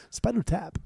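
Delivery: lightly done impression on two words; Christopher Walken. Shown as a demonstration. Showing co-host his best impression, mock Christopher Walken. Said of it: "That was my best Christopher Walken impression".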